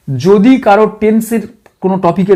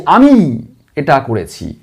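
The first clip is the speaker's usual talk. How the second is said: আমি given extra weight, lower and slower; stress on আমি; 6 semitones lower than usual. Shown as a demonstration. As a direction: stress আমি slowly and deliberately. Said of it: "আমি যখন আমাকে জোর দিয়ে বলছি".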